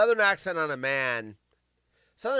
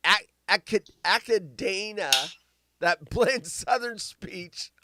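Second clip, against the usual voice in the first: normal talking voice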